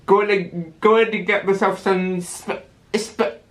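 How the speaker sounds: lightly put-on Italian accent, ham it up; cheerful mock Italian accent. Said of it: "everyone just goes".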